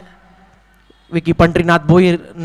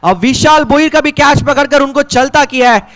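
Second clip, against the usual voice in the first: excited commentary; 5 semitones higher than usual. Real, not acted. Wicket falls, catch taken.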